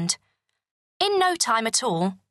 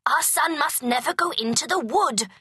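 higher firm king voice; a touch of a worried king; stern king; 7 semitones higher than usual. A narrator's reading. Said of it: "said the king".

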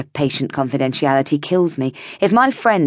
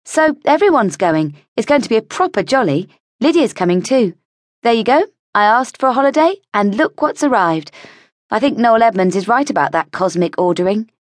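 a higher, bubbly gushing voice; heroine's excited chatter; 6 semitones higher than usual. Acted. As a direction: gush about the trip.

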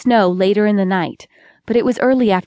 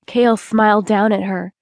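ordinary delivery, nothing marked

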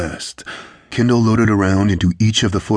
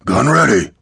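raised, higher-pitched gunner's call; shouted reply; 5 semitones higher, 4 dB louder than usual. A narrator's reading. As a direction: report back over the din. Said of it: "Lael shouted".

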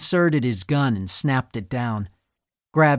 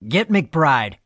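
commanding; 3 semitones higher, 3 dB louder than usual. Acted. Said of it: "he commanded".

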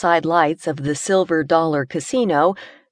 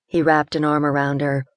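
ordinary delivery

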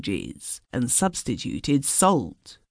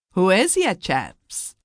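genial call; 6 semitones higher than usual. A narrator's reading. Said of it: "he cried genially".

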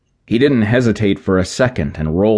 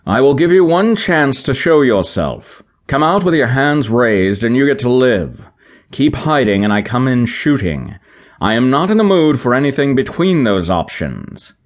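calling out; 6 semitones higher than usual. A narrator's reading. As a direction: call a stern ultimatum. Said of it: "North called out".

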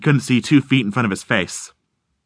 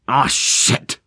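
morose. Acted. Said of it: "he said morosely".

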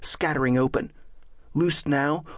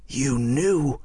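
stunned accusation. Acted. Friar realises he was deceived.

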